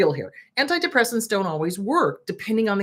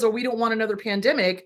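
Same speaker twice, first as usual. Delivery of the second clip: mock government quote; faster than usual. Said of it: "government that says".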